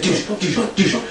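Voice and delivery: short repeated mouth-made impact noises; imitated chop sounds. Co-host shows the wrestler chopping, imitated impacts. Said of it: "you know how Flair, when he gets".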